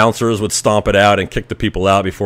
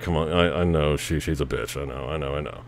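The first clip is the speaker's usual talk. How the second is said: much softer, lower, resigned murmur; hushed conceding; 8 semitones lower, 14 dB quieter than usual. Retold or imitated. Boyfriend quietly admitting his girl is trouble, hushed. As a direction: concede it almost under your breath.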